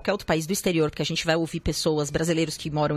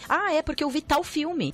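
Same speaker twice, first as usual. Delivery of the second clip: quoting a foreigner; 8 semitones higher than usual. Retold or imitated. Quoting a foreigner who knows films.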